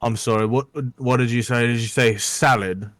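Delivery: a scornful, mildly hammed-up tavern keeper, incredulous; gruff barkeep's outrage. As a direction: play the barkeep offended by a salad order. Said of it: "he says".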